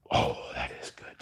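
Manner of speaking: soft, breathy near-whisper; quietly awed, barely voiced; hushed admiration. Real, not acted. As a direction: let it out under your breath, impressed. Admiring own work under breath.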